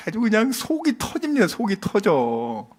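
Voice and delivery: acted parental frustration; exasperated. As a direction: groan it out, at the end of patience. Voices exasperated parent, God's heart.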